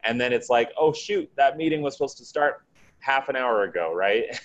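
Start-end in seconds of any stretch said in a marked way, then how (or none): 0.8-3.9 high, startled mock panic; a jolt of mock panic at a missed meeting; sudden alarm. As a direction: act out realizing you're late. Retold panic over missed meeting.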